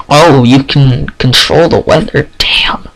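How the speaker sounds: slow breathy amazement; awed whisper. Acted. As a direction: hush it out in awe.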